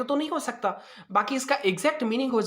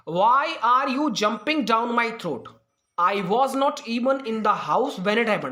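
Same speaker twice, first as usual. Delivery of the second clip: slow reading; much slower than usual. Shown as a demonstration. Teacher reads quiz sentence aloud.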